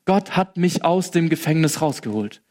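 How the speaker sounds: Gott given the main weight, rest falls away; stress on Gott. Shown as a demonstration. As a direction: lean on the word Gott. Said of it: "die Betonung liegt wieder auf Gott". (Betonung auf „Gott“)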